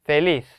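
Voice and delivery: 펠리스 with a loud 리스; stress on last syllable. Shown as a demonstration. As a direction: punch the final syllable 리스 in 펠리스. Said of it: "마지막 음절에 강세가 들어가요". (펠리스의 '리스'를 크게 강조)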